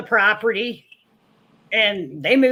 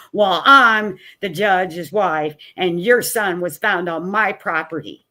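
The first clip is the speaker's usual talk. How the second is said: haughty declaration; 3 semitones lower, 3 dB louder than usual. Retold or imitated. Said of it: "she stomped off".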